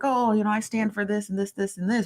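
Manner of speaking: sing-song mock activist voice; mocking fake activist. Host mocking fake activists to her viewers. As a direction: parrot a fake activist's slogans. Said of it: "fake activists be like".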